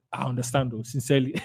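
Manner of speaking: soft, low sympathy; understanding. Shown as a demonstration. Seller acknowledging a price objection, softly understanding. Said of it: "make them feel understood".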